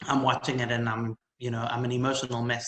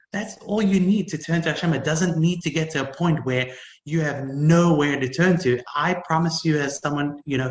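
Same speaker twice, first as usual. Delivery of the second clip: louder, earnest urging; building intensity; 3 semitones higher, 5 dB louder than usual. Real, not acted. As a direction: press the point home to the listeners. Rising to preaching.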